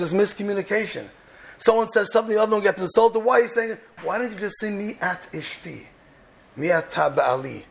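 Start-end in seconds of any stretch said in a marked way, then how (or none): 4.7-7.6 gentle. Pretend. Spouse asking gently instead of insulting.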